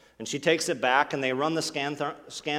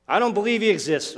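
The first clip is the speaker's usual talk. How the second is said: mock angry outburst; 8 semitones higher, 8 dB louder than usual. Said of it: "They say".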